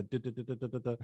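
rapid run of duh sounds; quick, even stuttered duhs; imitated crossing signal. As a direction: imitate a ticking crossing button. Imitating recorded street crossing button noise.

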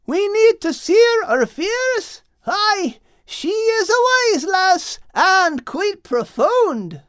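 high, loud, slow exclaim. Acted. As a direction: boom it out cheerfully. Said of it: "exclaimed a very loud Al".

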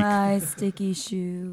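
slow, croaky Phoebe impression; Phoebe's phlegm voice. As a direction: drag out the words in a phlegmy croak. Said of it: "Phoebe's phlegm voice".

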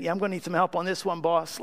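quick, offhand throwaway request; breezy quick mock ask; casual, flippant. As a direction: toss it off lightly to the boss. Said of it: "casual, flippant".

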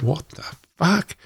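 mock outraged cry, pitched high; retold outburst. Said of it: "And I lost my shit".

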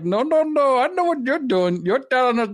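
a hammed-up panicky worker refusing to come out; mock scared workers. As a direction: play the frightened workers, fast at the end. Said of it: "They're like".

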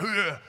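burly man's grunt; short wordless growly grunt; gruff grunt. Acted. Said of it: "this is the way he talks".

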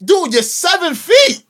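slow, high and loud disbelief; exasperated. Real, not acted. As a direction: drag it out in disbelief. Incredulous at Embiid.

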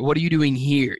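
"here" given the emphasis at the end; stress on here. Shown as a demonstration. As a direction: save the weight for "here". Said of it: "putting the emphasis on the different words".

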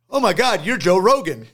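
high, loud, imitating a starstruck guard; starstruck gasp. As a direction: gush like a fan who just recognized someone. Guard recognizes famous person, retold.

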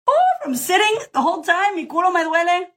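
high, put-on silly voice, half in Spanish; playful whine. Real, not acted. Host joking about her sore backside, high and silly. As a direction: ham up the complaint like a cartoon.

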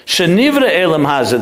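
Shenivra pressed firmly, falling after it; stress on Shenivra. Shown as a demonstration. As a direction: lean into the word Shenivra. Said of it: "the Rebbe emphasized the word Shenivra".

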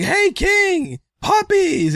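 high eager fan call. Retold or imitated. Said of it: "somebody's like".

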